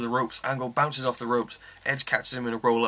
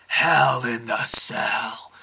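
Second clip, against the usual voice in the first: dramatic whisper; 6 dB louder, much slower than usual. Pretend. Announcing the next match segment.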